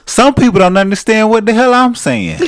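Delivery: laughing. Real, not acted. Husband laughs about his southern, country talk, laughing loudly. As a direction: laugh at how people can't understand you.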